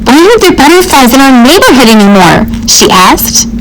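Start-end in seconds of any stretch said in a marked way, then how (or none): 0.1-2.5 put-on curious child. Child Farah asks Mom.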